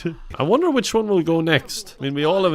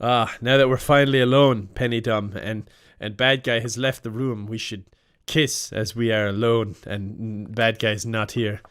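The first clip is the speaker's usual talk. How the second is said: lower, conspiratorial seducer, slowing; low scheming lover; 5 semitones lower than usual. Acted. Lover alone with Penny Dumb, low scheming voice. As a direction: murmur it like a sleazy schemer.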